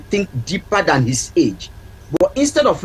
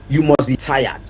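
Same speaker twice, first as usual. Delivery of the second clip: gently, a bit lower, kind concern; gentle mother; 4 semitones lower than usual. Shown as a demonstration. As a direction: say it like a caring mother greeting her son. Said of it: "Or say to him".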